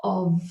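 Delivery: of as UV with a V sound; of, buzzing V; correct of. Shown as a demonstration. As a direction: model of ending in V. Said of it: "a V sound".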